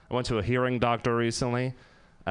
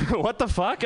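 crowd shocked; 8 semitones higher than usual. Retold or imitated. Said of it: "everyone's like".

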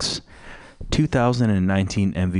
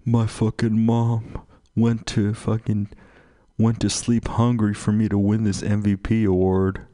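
mock tearful athlete. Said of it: "He's like".

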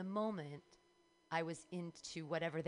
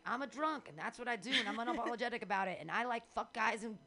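higher, defiant poet voice; poet persona; 4 semitones higher, 3 dB louder than usual. Acted. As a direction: declaim it like an unapologetic confessional poet. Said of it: "doing this sort of poet thing".

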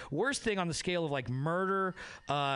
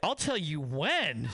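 slow, disbelieving echo of the line; incredulous repeat; slower than usual. Retold or imitated. Comic repeating the customer's order, slow and incredulous. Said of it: "Oh, what?".

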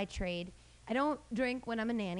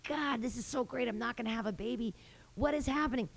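mock pained whine; 2 semitones higher than usual. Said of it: "terrible cramps and I was like".

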